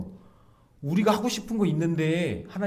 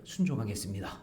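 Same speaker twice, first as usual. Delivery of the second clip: mock pledge; 5 semitones lower, 7 dB quieter than usual. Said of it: "입으로는 뭐냐면".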